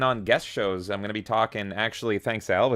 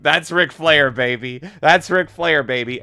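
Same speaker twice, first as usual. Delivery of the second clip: loud, higher wrestler boast; Ric Flair catchphrase; 4 semitones higher, 7 dB louder, slower than usual. Retold or imitated. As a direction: strut it like a wrestling legend. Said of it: "And it was like".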